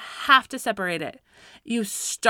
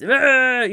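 loud frustrated "ugh"; growled-out, exasperated groan; 3 semitones higher, 6 dB louder than usual. Acted. Parent towering over the kids, loud frustrated groan. Acts out standing tense, frustrated.

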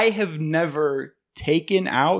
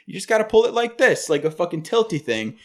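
mock insistent girlfriend; 5 semitones higher than usual. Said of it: "she just keeps saying over and over again".

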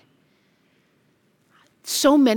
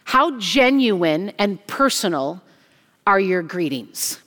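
slow earnest question; slower than usual. Acted. Slow emphatic rhetorical question.

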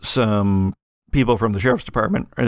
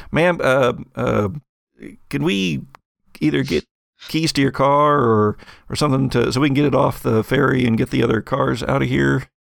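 hesitant, lightly voiced ferry worker, a touch higher; tentative official asking a favour; ferry operator; 3 semitones higher than usual. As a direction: make an awkward, halting polite request. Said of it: "one of the ferry operators".

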